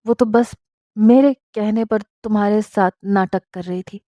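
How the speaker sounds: tender, halting confession of love; stammering husband confessing. Acted. Husband confesses his love to his wife, halting and tender. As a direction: stumble through the confession gently.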